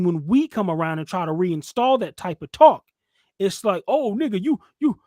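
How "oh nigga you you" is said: high, loud indignant squeal; mock outraged Greta Thunberg. Mocking offended men as Greta Thunberg, high outraged voice. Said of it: "they turn into Greta Thunberg's".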